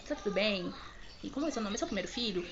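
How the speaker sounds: imitating a soothing nurse, softly; gentle retold check on a frightened patient; calming. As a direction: reassure quietly and kindly. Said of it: "Ela começou a me acalmar".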